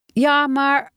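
put-on high, tentative child's protest; mildly hesitant boy. A narrator's reading. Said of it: "begon Tijmen aarzelend".

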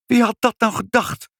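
high-pitched amazement; incredulous, swooping high; astonished exclamation. A narrator's reading. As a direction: cry out in sheer surprise. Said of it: "riep moeder".

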